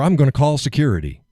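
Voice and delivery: mock nurse threat. Man mimicking the nurse's threat.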